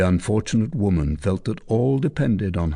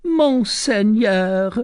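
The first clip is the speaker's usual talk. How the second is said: much higher, louder, slow plea; cried out; 13 semitones higher, 5 dB louder, much slower than usual. Acted. Recluse crying out to Tristan, desperate. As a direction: cry out to stop him. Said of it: "she cried".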